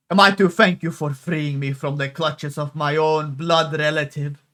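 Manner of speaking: lightly put-on Italian accent, Inigo Montoya style. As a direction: play her with a hammed-up Italian lilt. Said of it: "Italian, like, I don't know, fucking Inigo Montoya voice".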